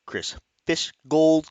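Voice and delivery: Chris Fishgold drawn out slowly, each syllable careful. Shown as a demonstration. Host carefully sounding out a tricky fighter name, slowly. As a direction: spell out Chris Fishgold slowly so you don't trip on it. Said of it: "I have to say it very slowly".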